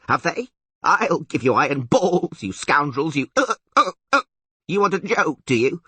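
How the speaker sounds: high, loud, bleating tirade; roaring goat creature. A narrator's reading. Goat horn threatens the jokers, roaring. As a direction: rant like an outraged goat. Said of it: "roared the goat horn loudly".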